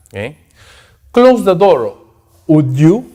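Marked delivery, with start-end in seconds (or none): 1.1-3.1 quiet polite request. Shown as a demonstration. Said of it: "Quiet, polite".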